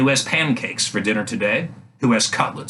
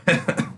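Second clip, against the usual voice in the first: incredulous laugh. A narrator's reading. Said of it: "The lady laughed incredulously".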